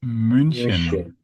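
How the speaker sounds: München slowly, with a long rounded ü; German pronunciation. Shown as a demonstration. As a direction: model München in German, stretching the first syllable. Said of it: "In German, we say München".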